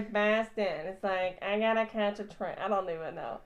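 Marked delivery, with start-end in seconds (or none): 0.1-0.9 light mock Boston accent; a quick stab at Boston. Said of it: "Have you heard a Boston accent". 1.4-2.6 light mock Boston accent; rough, throwaway Boston impression. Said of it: "Have you heard a Boston accent".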